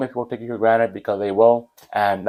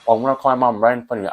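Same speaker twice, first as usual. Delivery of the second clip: retold threat; 2 semitones higher, faster than usual. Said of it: "and I said to the teacher".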